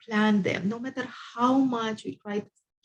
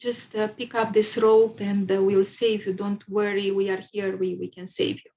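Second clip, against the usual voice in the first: calling out. Retold or imitated. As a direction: shout down to a swimmer, lightly. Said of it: "yelled at him and said".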